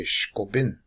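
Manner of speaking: "shko bin" with short, quick vowels. Shown as a demonstration. Teacher showing short single vowels, "shko bin" said quick. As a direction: keep both vowels in "shko bin" brief. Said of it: "they should be said real quick".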